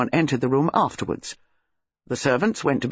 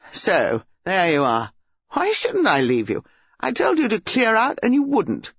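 put-on annoyed young man, rising higher; irritated; 4 semitones higher than usual. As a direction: snap back in a lovers' quarrel. Acted lovers' quarrel.

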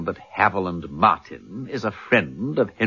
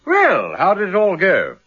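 breezy greeting; 9 semitones higher, 6 dB louder than usual. Acted. Peter bursts in cheerfully.

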